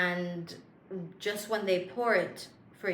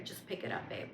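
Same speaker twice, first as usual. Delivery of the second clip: softly whispered aside; 10 semitones lower, 11 dB quieter than usual. Real, not acted. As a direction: breathe it like a secret.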